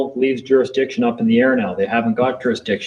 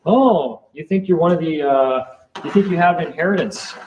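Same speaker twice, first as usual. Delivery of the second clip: higher, needling sarcastic tone; mocking official; 4 semitones higher than usual. Court official needling a defendant, sarcastic and higher. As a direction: poke at the defendant like a smug clerk. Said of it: "they're gonna poke you".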